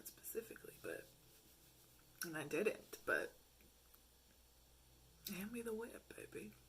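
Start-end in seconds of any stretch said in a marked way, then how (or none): 5.4-6.5 soft teasing purr; mock seductive. Pretending to be his dom, a soft teasing purr. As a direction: hush it like a playful dominatrix.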